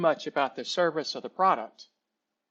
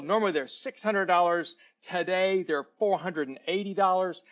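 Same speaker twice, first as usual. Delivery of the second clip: imitating an over-eager salesman, pitched up; excited sales pitch; 4 semitones higher than usual. Trained boy pitches a Yeti cooler to a customer, mock excited. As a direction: rattle off selling points like a keen new hire. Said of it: "he is so excited".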